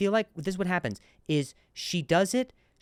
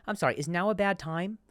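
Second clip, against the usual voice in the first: upscale British accent; 4 dB quieter than usual. Shown as a demonstration. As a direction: ask it in snooty upscale British. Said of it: "Like that".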